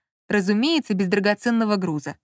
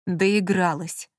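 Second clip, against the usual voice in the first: slow, angry hiss; a slow furious hiss at his partner; 2 semitones lower, much slower than usual. Acted. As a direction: hiss it slowly in anger. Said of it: "зло прошипел Маркиз".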